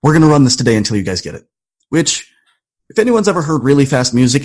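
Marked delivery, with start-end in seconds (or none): 0.0-1.4 retold director. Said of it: "And finally he goes".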